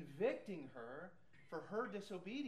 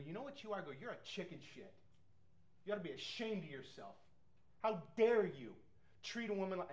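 retold angry rebuke; 3 semitones higher, faster than usual. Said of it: "I was so angry".

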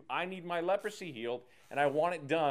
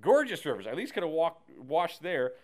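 a touch louder, scoffing Look, dude; indignant boasting; 2 semitones higher, 4 dB louder than usual. Acted. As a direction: brag about home rivers, offended. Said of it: "He's like".

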